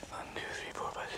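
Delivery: counting eggs under the breath; barely audible whispered count; whispering. Real, not acted.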